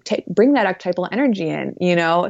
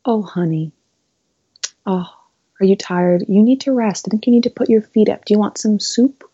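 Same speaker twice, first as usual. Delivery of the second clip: a mock doting mom, higher and louder, fussing over a tired child; loving inner mother voice; 3 semitones higher, 4 dB louder than usual. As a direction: coo like a caring mother offering soup. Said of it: "it's this loving, kind voice".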